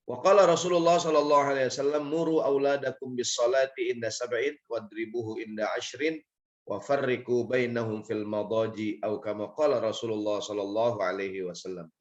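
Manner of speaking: formal Arabic quotation; hadith recitation. Acted.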